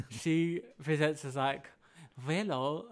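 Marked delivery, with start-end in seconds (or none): 2.2-2.9 hammed-up mock German greeting; botched German-accent hello; bad German accent. Shown as a demonstration. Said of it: "a German accent".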